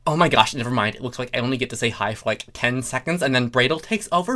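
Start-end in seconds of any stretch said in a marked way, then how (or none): none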